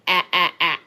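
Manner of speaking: isolated short "ah" as in bag, repeated; demonstrated vowel. Shown as a demonstration. Co-host explains her vowel in bag, sounding out "ah". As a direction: sound out "ah" on its own, separate beats. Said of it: "I say bag".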